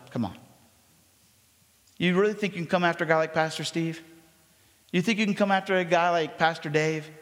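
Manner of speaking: taunting devil. Acted. Devil voiced taunting the pastor.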